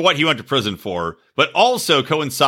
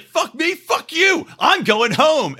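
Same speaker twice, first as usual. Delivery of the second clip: much higher, angry mock rant; hammed-up drunk fury, pitched up; furious storm-off; 13 semitones higher, slower than usual. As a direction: rage at him and storm out. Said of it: "he's like".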